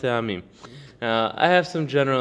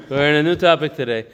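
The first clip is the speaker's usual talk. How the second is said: said again, louder and firmer, to get attention; louder repeat; 4 dB louder than usual. Real, not acted. Teacher repeats to a distracted student, louder and firmer. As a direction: call the student back to the topic.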